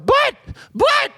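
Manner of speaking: very high-pitched, squealed imitation of pleading; imitating a desperate, helpless protest; mock pleading. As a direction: plead in a silly falsetto, word by word. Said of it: "pleading, going".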